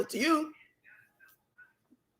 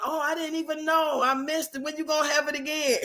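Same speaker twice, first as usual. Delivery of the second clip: mocking fan voice; 3 semitones higher, 5 dB quieter than usual. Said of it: "y'all try to act like y'all don't".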